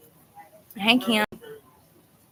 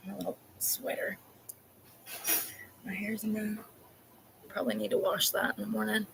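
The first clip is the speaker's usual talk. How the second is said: 1 spent from laughing; 13 dB quieter than usual. Real, not acted. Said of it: "I'm literally crying".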